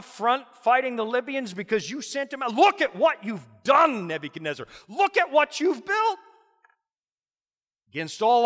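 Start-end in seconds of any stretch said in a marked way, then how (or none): 2.5-6.2 acclaiming shout. Retold or imitated. Crowd praising the king.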